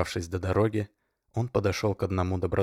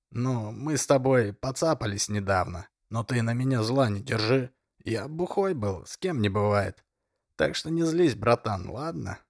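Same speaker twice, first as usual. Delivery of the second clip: put-on pleading drunk voice; 4 semitones higher than usual.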